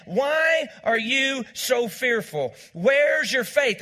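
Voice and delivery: slow fervent appeal; pleading challenge. Acted. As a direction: drive the question home slowly. Preacher's rising appeal.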